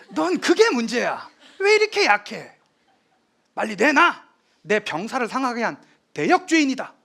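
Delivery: 웃음 섞어 크게 꾸짖는 태종; 약한 아들을 비웃으며 높고 크게 다그친다; 비웃는 호통. Retold or imitated. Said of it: "라고 얘기를 합니다". (나약한 세종을 비웃으며 꾸짖는 태종)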